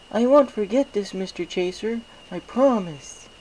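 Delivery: very high, slow, dreamy filly voice; dazed Derpy. Acted. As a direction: say your name slowly as if half-lost. Derpy promises gratefully.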